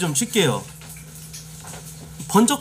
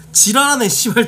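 louder and higher, snapping back at chat; a real flash of irritation, cursing; annoyed outburst; 5 semitones higher, 5 dB louder than usual. Real, not acted. 편견 섞인 채팅에 짜증 내며 내뱉는 욕설.

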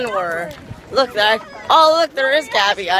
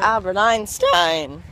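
voice crack; 2 semitones lower, much slower than usual. Real, not acted. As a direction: voice cracking mid-word. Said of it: "Nice voice crack, man".

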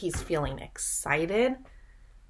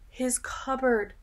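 surprised gasp; 4 semitones higher than usual. Acted. Gasps at empty cupboard.

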